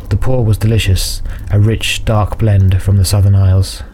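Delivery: measured fantasy audiobook narration; story narration. A narrator's reading. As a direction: narrate a dark fantasy tale evenly.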